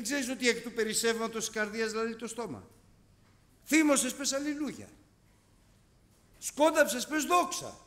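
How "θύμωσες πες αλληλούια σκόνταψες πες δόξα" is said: raised, high preaching voice; emphatic exhortation. Acted. Preacher tells the angry believer to praise, emphatic exhortation. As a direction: punch each case out loud and high.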